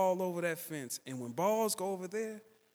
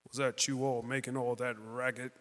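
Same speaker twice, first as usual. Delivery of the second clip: deep booming movie-star voice, much lower; James Earl Jones voice; 3 semitones lower than usual. Retold or imitated. Mean neighbour growling at the boys, low James Earl Jones voice. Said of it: "he has that voice".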